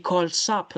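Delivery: "call up" said as call-sop with a hissed s; wrong s linking. Shown as a demonstration. Teacher voicing the form not to use, wrong s linking. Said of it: "Non, c'est pas call up".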